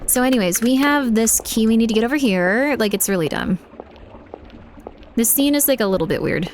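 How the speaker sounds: put-on lazy valley girl talk; breezy valley girl, lots of like. Shown as a demonstration. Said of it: "redeem Valley Girl voice".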